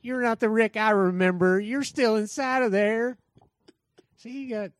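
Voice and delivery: lightly voiced Morgan, pleading with Rick; a hint of the old friend Morgan; Morgan impression. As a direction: Morgan begging Rick to remember himself. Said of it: "That's my Morgan impression".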